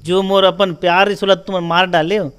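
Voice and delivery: imitating someone yelling at the others; retold shouting. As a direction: cry out an accusation, as retold. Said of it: "वो चिल्ला चिल्ला के बोलते".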